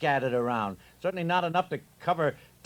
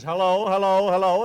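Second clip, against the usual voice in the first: a slightly louder mock hello into a silent line; mock stranger on the phone; 5 dB louder than usual. Husband imitating a stranger answering, lightly puzzled hellos. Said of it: "Fella probably says".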